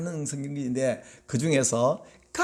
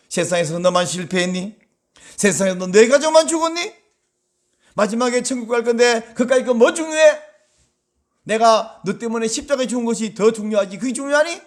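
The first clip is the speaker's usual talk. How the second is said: heartless rebuke; 4 semitones higher, 3 dB louder than usual. Retold or imitated. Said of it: "그렇게 매정한 분이 아니시라는 거예요".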